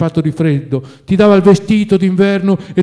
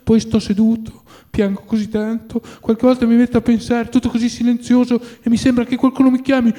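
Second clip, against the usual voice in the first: put-on higher, lightly tearful old man's lament; tearful old servant; 7 semitones higher than usual. A narrator's reading. Old servant mourning his master at the grave, tearful. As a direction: grieve for the dead master in a raised, aching voice. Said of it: "aggiunse singhiozzando".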